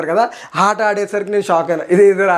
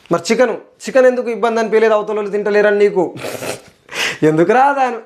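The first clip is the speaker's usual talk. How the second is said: indignant questioning, pitched higher; worked-up rant; 5 semitones higher than usual. Real, not acted. Vlogger indignant about the chicken theft. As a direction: demand an answer, exasperated. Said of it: "ఎందుకురా ఆమె మీద పడ్డావని మీరు అనుకోవద్దు".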